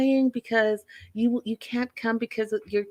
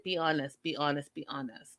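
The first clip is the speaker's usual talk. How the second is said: each "be honest" lower and softer until it fades; fading repeat; 7 semitones lower, 10 dB quieter than usual. Retold or imitated. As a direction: let "be honest" die away. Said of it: "Everyone's like".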